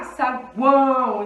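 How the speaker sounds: saguão slowly, the a loud and full; stressed A. Shown as a demonstration. Teacher slowly stressing the A in saguão. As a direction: lean hard on the a of saguão. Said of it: "a gente fala o A bem forte".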